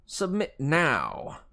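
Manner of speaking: high, slow Southern command; menacing Southern accent. A narrator's reading. Fury teacher ordering the hero to yield, menacing Southern accent. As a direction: drawl it as a Southern villain's threat. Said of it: "she hissed".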